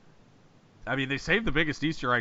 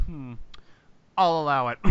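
Chang; 2 semitones higher than usual. Retold or imitated. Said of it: "like Chang in that one scene".

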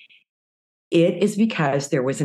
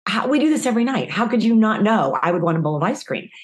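higher, fast exasperated protest; exasperated wife; 4 semitones higher, faster than usual. Retold or imitated. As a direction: rattle it off in disbelief. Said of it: "And I said".

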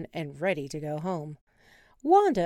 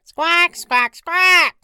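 high loud squawking; angry penguin squawks; 10 semitones higher, 14 dB louder, much slower than usual. Acted. Penguins warning tourists, loud squawks.

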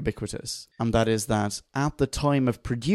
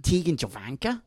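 higher, questioning go at Australian; badly faked Aussie accent, unsure of itself; attempted Aussie accent; 4 semitones higher, 4 dB quieter than usual. Shown as a demonstration. Host trying a character's name in an attempted Aussie accent. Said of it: "No, I can't do it".

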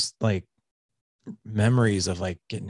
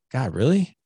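higher-pitched retold reproach; wife's reproach; 5 semitones higher, 3 dB louder than usual. Wife to husband after he hit their son, reproachful. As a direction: imitate a wife calling her husband out. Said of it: "she never talks to me like that".

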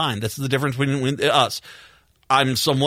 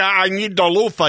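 put-on Chicago accent; 5 semitones higher, 4 dB louder than usual. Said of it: "I can't do that accent".

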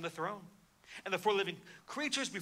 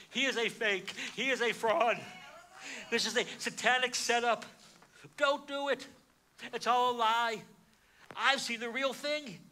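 higher and louder, urgently rousing the listeners; urgent warning; 5 semitones higher, 4 dB louder than usual. Retold or imitated. Preacher as John urging the congregation awake, urgent loud call. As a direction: shake them awake as John.

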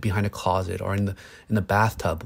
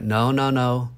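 mock stern no; 3 semitones higher, 3 dB louder, slower than usual. Parent shutting down a crying toddler, scolding. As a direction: imitate the harsh dismissive parent. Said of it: "classic response from survival parenting".

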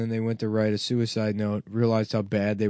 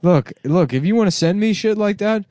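mock rant; 4 semitones higher than usual. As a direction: yell at the fans in mock outrage. Host mock-ranting at fans.

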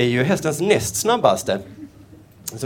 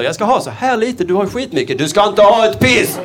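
a mosquito whining higher, ending loud and slow; greedy mosquito; 5 semitones higher, 3 dB louder than usual. Acted. Mosquito complaining to a human about blood. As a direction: play the mosquito griping about stingy humans.

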